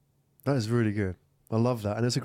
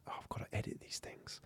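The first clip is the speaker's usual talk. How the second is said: very soft, nearly whispered aside; dismayed realisation; 17 dB quieter than usual. Acted. Podcaster realising the editing workload, hushed dismay. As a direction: drop it to an under-the-breath groan of realisation.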